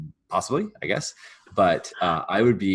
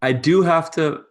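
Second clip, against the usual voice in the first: higher, louder, halting admission; hesitant servant admission; 6 semitones higher, 6 dB louder than usual. Acted. Servant admits foraging to farmer, hesitant. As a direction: own up with long pauses.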